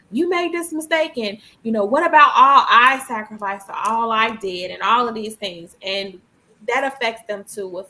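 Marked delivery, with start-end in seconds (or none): 0.1-5.8 scolding parent. Retold or imitated. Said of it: "we can be like".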